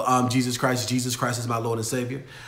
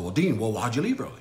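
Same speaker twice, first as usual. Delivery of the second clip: imitating Ari's way of talking; 5 semitones lower, 4 dB quieter, faster than usual. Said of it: "That's how he talks".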